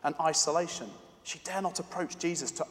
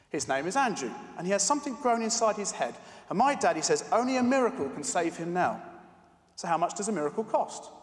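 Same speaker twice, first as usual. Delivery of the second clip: put-on little girl voice; 3 semitones higher than usual. Girl pleading with pharmacist.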